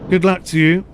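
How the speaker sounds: mock Welsh lilt on good luck; playful Welsh accent. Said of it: "in that Welsh accent".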